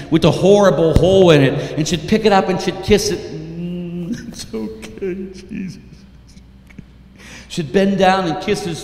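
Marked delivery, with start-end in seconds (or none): 3.2-5.8 soft tender murmur over the body; hushed grieving mother. Acted. Mother kissing her dead son's hand, soft murmur. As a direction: barely breathe it to him.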